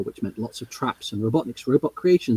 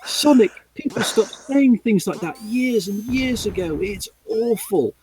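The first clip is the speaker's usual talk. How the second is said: mock whisper as Tails; 8 semitones higher than usual. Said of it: "Tails whispered into his friend's ear".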